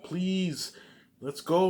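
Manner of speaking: high, pleading mock female voice; mock begging woman. Stripper begging him to go home, high mock plea. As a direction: beg like a woman in a club.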